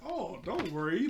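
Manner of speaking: high, slow sugary imitation; all nice. Shira reassuring the director, exaggeratedly nice. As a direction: draw it out in mock niceness. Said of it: "trying to be, like, all nice".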